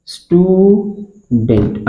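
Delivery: स्टूडेंट stretched slowly; teacher modelling a word; slow sounding out. Shown as a demonstration. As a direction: drag out स्टूडेंट for the class. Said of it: "अब इसको break करेंगे".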